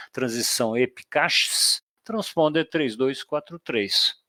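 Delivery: leitura de autorização de controlador, em ritmo de fonia; voz de controlador. Shown as a demonstration. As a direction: dite a autorização como o controle. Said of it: "Qual é a resposta do A T C". (controlador dando autorização no rádio)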